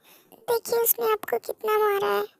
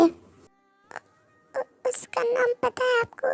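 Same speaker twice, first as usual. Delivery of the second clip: softer, slow, stammering through tears; tearful, faltering; 2 semitones higher, 5 dB quieter, much slower than usual. Acted. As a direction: hold back the sobs as you ask. Shaken, asks the friend's name.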